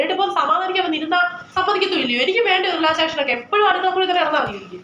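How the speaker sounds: mother snapping at her daughter over the serial; irritated mother. Acted. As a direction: vent like a tired mother interrupted. Mother disturbed while watching serial.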